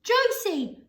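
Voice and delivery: high loud shout of Josie. A narrator's reading. Grandpa Joe shouting to Josie, high and loud. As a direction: shout her name out. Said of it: "shouted Grandpa Joe".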